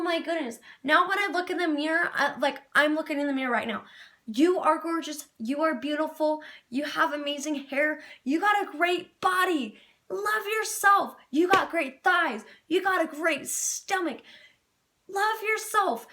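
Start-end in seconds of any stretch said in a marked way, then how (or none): 4.3-16.1 self pep talk. Acted. Affirms herself in the mirror.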